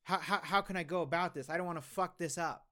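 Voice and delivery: feigned eager concern; mock earnest. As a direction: ham up taking it seriously. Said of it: "as if I was taking it seriously".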